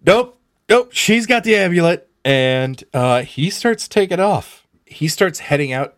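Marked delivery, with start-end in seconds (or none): 0.1-2.1 high, loud, frightened backing off; panicked retreat. Acted. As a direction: squeal it out in a panic. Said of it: "he's like".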